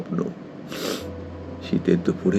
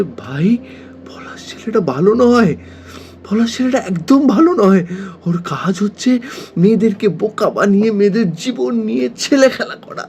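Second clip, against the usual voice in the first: insistent, raised-pitch warning; urgent warning; 3 semitones higher than usual. Acted. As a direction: plead urgently with a friend to listen. Recounts warning friend about a bad man.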